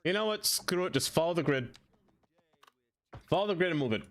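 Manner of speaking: exasperated. Real, not acted. Frustrated outburst, high.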